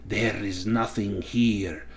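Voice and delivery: put-on slow, hissing wraith with an odd accent; hissing voice with strange accent. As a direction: hiss it out slowly in a foreign lilt. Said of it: "speaking in a hissing voice and a strange accent".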